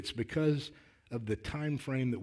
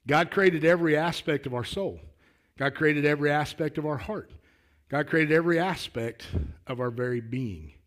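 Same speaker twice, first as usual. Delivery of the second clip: raised pulpit voice, driving the repeated phrases; emphatic preaching; 3 semitones higher, 5 dB louder than usual. Acted. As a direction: proclaim it to the congregation with conviction.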